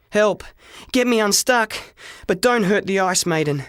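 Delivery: put-on boy stuck to ice crying out to people at the bus stop; calling for help. A narrator's reading. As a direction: shout for help to strangers. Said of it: "was what I tried to say".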